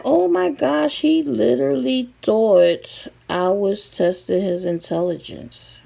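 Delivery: a hint of high, amused oh my gosh; half-laughing disbelief. Laughing at the sibling who felt tested, lightly high amused. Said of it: "I was like".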